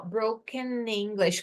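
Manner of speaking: slow "broken English" run together; consonant linked to vowel. Shown as a demonstration. Teacher shows consoante e vogal junto, linked "broken English". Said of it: "consoante e vogal junto".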